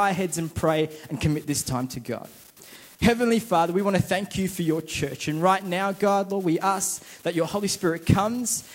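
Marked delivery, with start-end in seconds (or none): 3.0-8.6 prayer. Acted. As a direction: lead the church gently in prayer. Leads the prayer.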